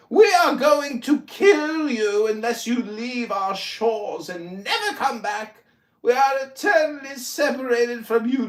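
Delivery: a hint of a grand revolutionary proclamation; mock founding father. Voicing Jefferson's farewell to the English, mock proclamation. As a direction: declaim it like a lightly voiced Thomas Jefferson. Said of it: "picked up the musket and said".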